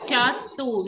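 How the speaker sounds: Shatu corrected to end in a long O; pronunciation demo. Shown as a demonstration. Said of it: "has to be an O sound".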